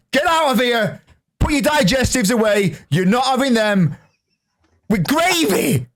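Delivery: high, indignant mock-Brit protest; mock outraged Brit. Yorkshire streamer telling Americans off over gravy, high indignant scoff. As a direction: scoff at them like a scandalised Englishman.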